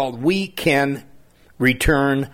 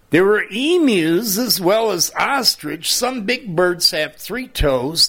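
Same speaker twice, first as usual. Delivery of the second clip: put-on reading to children; 2 semitones higher than usual. Reads children's poem.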